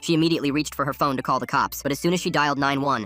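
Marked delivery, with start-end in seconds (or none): none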